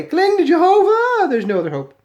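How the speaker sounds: high, loud mock-preacher cry; mock exhortation. Mocking a religious slogan, loudly wailed. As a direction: belt it out like an overblown slogan.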